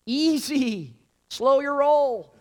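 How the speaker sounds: high voice holding someone back; taken aback. Retold or imitated. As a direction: whoa there, calm him down. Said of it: "You're like".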